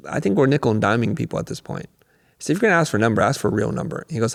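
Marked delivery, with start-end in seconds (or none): none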